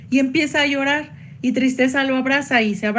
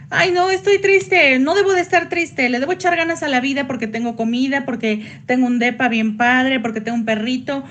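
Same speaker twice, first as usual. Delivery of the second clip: mock forced positivity.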